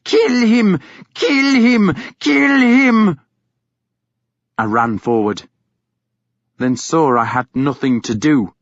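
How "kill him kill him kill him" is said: high, loud, repeated shrieks; frenzied screaming. A narrator's reading. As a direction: scream the order over and over. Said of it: "she screamed at the dogs".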